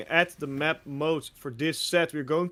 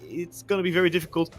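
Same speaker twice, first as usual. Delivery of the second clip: louder, higher esports caster intro; game announcer; 6 semitones higher, 6 dB louder than usual. Real, not acted. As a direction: announce the match with energy.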